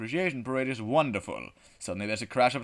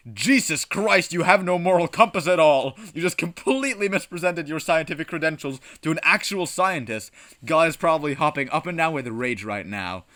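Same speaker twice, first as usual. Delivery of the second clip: louder, higher, stretched-out exclamation; exasperated scolding narration; 6 semitones higher, 7 dB louder than usual. A narrator's reading. Game text scolds the player over fake credentials, exasperated. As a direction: scold the player in loud disbelief.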